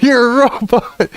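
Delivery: reenacted yell breaking out of laughter. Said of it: "I was yelling at it".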